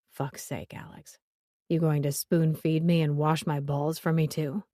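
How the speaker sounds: gruff man voice. Acted. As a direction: growl it like an irritated man. Joe's growled, grumbling complaint.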